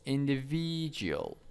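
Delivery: "individual" stressed on the third syllable, falling after it. Shown as a demonstration. Teacher showing students word stress, stress on "individual" third syllable. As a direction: lean on VI in "individual". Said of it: "on the s-, third syllables".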